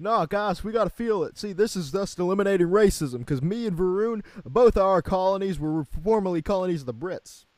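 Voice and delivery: high, loud hammed-up British accent; high exaggerated British accent; mock British accent. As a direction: lay the British accent on thick. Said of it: "talking in a British accent".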